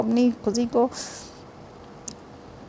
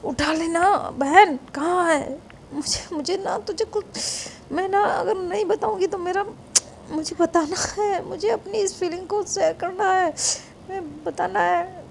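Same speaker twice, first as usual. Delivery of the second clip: impatient; 7 semitones higher, 4 dB quieter than usual. Acted. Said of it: "उसे गुस्सा आता है कि".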